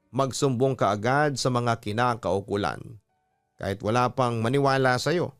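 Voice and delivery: ordinary talk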